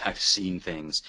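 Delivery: slow, hammed-up haunted line with a laugh; mock ominous. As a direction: play it like a weary veteran. Playful dramatic echo of host.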